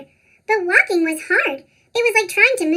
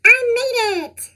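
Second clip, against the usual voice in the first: triumphant; 5 semitones higher than usual. Acted. Triumphant arrival at store.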